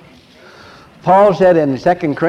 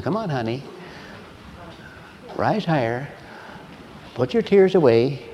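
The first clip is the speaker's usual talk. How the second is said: much softer, tender encouragement; gentle coaxing; 8 dB quieter than usual. Retold or imitated. Husband on the phone gently coaxing his crying wife. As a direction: coax her kindly out of tears.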